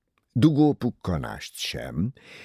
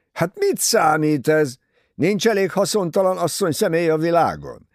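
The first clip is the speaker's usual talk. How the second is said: a lightly voiced young man scoffing, a bit louder and higher; scornful scoff; 8 semitones higher, 5 dB louder than usual. A narrator's reading. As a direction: brush off the fuss with contempt, not far from the narrator's voice. Ferguson scoffs at the fuss.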